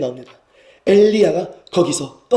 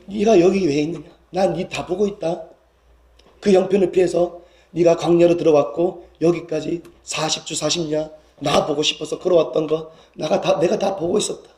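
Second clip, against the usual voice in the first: tender reassurance. Acted. God has seen Elijah's whole journey, tender reassurance. God's tender words continued.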